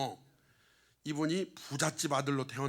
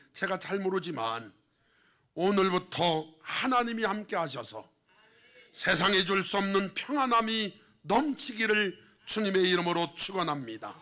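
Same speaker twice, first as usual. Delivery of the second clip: raised, emphatic pulpit delivery; louder preacher's proclamation; forceful preaching; 4 semitones higher, 6 dB louder than usual. Real, not acted. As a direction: exhort and bless the congregation strongly.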